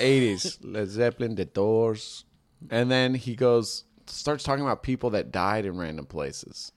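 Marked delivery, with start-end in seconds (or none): 0.6-2.2 imitated Mexican-accented cab driver. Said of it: "the quintessential Mexican accent".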